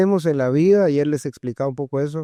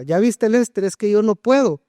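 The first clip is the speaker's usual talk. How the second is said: imitating her complaint; 4 semitones higher than usual. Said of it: "ya me la escuchaba".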